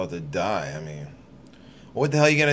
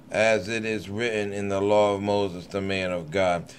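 measured, solemn Bible reading; deliberate King James recital; scripture reading. Acted. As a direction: read the verses steadily like a lay preacher. Reads scripture aloud.

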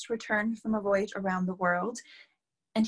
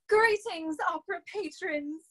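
formal greeting; 7 semitones higher than usual. Acted. Third try at speech opening.

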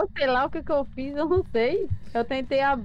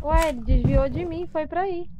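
panicked surprise; 5 semitones higher, 6 dB louder than usual. Real, not acted. Ghost turns toward partner.

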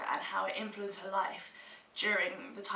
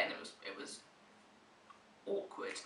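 whispered; 10 dB quieter than usual. Acted. Embarrassing story punchline.

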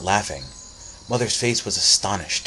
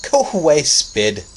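laughing shoo; 8 semitones higher, 9 dB louder, slower than usual. Acted. Laughing boy shooing spider.

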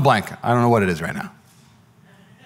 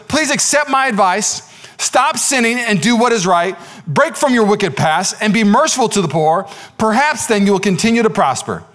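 raised, emphatic appeal; earnest pleading; 5 semitones higher than usual. Acted. Daniel urges the king to stop sinning, pleading. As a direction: press each plea home from high in the voice.

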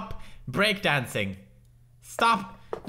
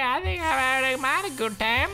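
sarcastic; faster than usual. Real, not acted. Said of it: "Am I having a good time?".

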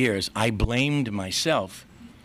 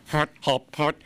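short repeated goofy honks, pitched up; silly noise; 4 semitones higher than usual. Retold or imitated. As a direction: make daft little noises to cheer up mom. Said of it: "I'd make a noise".

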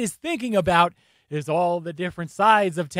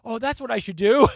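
mock realization; 2 semitones higher than usual. Commentator mimics killer remembering to show emotion, mock realization. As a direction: imitate someone just catching on, tongue in cheek. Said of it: "then he's like".

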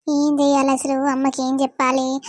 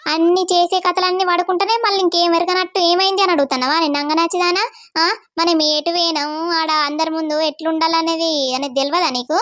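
angry mother. Acted. Mother scolding. (తల్లి గొంతులో తిట్టుకుంటూ, తక్కువ స్వరంలో)

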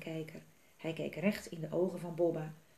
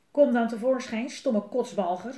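loud, raised challenge; defiant story-character call; 4 semitones higher, 7 dB louder than usual. A narrator's reading. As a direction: shout a taunting challenge, drawing out the insult. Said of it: "riep Melle".

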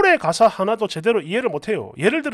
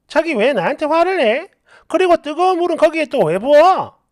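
aggrieved, raised questioning; indignant protest; 3 semitones higher than usual. Acted. Wife asking husband why he is angry, indignant protest. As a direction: object as the wronged party.

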